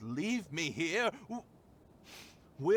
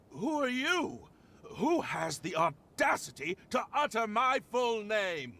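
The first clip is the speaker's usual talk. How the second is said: high, affronted demand; haughty indignation; 5 semitones higher than usual. Acted. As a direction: demand it like an offended aristocrat. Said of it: "in any condition to be talking like that".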